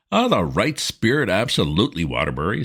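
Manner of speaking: cordially. Acted. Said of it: "said Sippy cordially".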